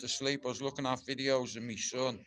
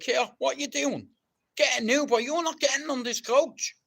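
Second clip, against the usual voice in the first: higher, louder mock dressing-room rant; pretend captain shouting; 9 semitones higher, 3 dB louder than usual. Imagined captain yelling at the squad, mock furious shouting. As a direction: bawl the players off the bus as captain. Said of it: "I'd be like".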